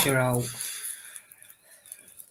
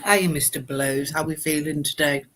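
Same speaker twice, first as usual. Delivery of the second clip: eating chocolate. Real, not acted. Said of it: "Sorry, I'm eating some chocolate".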